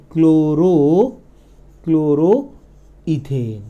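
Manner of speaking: long stretched final vowel; slow dictation. Shown as a demonstration. Teacher writing the prefix for students, slow dictation. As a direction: draw the prefix out while writing.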